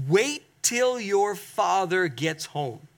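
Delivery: slow, drawn-out parental warning; mother's warning. Retold or imitated. Mother to rebellious child while dad is out, slow warning. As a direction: spell out the threat slowly, like a parent. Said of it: "maybe your mother said to you".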